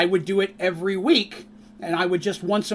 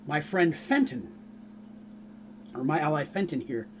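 elven woman; 4 semitones lower, 7 dB quieter than usual. Acted. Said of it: "turns and says".

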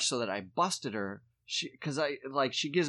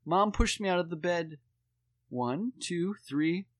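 put-on high kid voice, building louder; tattling child; 7 semitones higher, 7 dB louder, slower than usual. Dad imitates daughter tattling as mom stands behind, whiny. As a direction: whine it pointedly for someone to overhear. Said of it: "pretending like Meg's not behind her".

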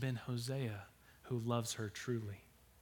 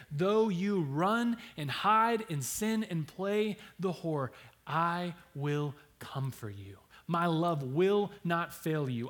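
slow, high and loud plea; impassioned; 4 semitones higher, 4 dB louder, slower than usual. Real, not acted. God speaking to his unfaithful people, impassioned. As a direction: preach it with rising passion. Voicing God's pleading love.

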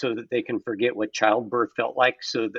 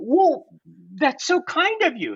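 mock flattered; 11 semitones higher, 4 dB louder, slower than usual. Retold phone call, own reply.

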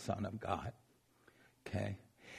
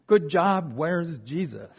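high priest; 3 semitones higher, 6 dB louder than usual. Retold or imitated. High priest greets returning guards.

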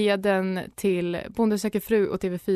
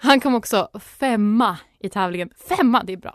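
put-on Stockholm accent; 4 dB louder than usual. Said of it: "får jag göra det här på stockholmska?".

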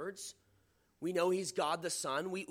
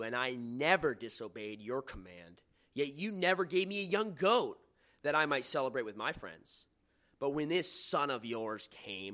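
put-on resentful older son; 4 semitones lower, 3 dB louder than usual. Older son's complaint read aloud.

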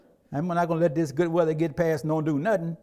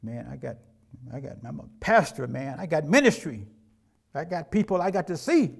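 excuse-making dad; 3 semitones lower than usual. Pretend. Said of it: "you says".

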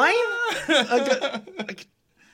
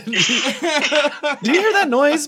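slow, laughing take on the dad's question; imitating the dad; 5 semitones higher, much slower than usual. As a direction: drag it out while laughing. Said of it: "Your dad's like".

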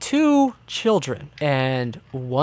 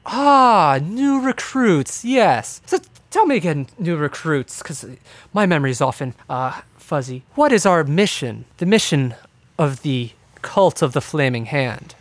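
lightly voiced dark elf. Dark elf quizzes supposed new recruits, lightly feigning welcome.

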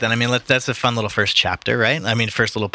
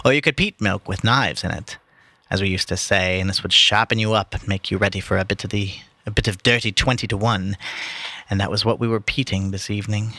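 story reading. Acted. Reading the book to his podcast friends, measured narration. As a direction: read it like an audiobook narrator. Reads the novel aloud.

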